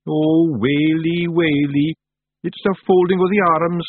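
high, drawn-out wail of dread; panicked wailing. A narrator's reading. Daft Woolly dreads Tiffany's folded arms, wailing in panic. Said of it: "cried Daft Woolly".

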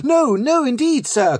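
high-pitched, frightened protest; quaking cry. A narrator's reading. Flashman denying contempt to the raging captain, quaking. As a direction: plead in panic with a raging superior. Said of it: "cries I, quaking".

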